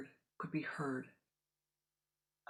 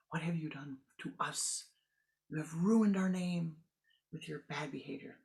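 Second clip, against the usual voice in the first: scolding parent. Acted. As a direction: scold the daughter for shaming the family.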